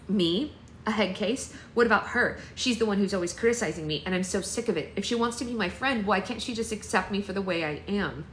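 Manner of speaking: a hammed-up outburst at the accusation; mock yell. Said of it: "no need to yell".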